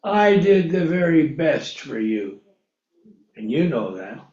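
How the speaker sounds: low, soft voice of God correcting Harold; the Lord answering Harold quietly from deep down; God gently rebuking. Pretend. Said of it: "He's gonna say".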